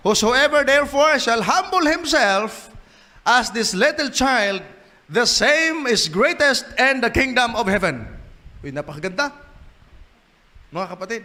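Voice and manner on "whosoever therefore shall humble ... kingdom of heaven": high, slow proclamation of the verse; solemn scripture reading. Acted. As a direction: read the verse like a herald. Quotes Bible with raised voice. (mataas at mabagal na pagbasa ng talata)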